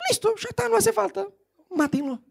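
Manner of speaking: high, mock exasperated verdict; curt king. The king ending the matter, ordering Amán killed. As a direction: cut it short and order the execution.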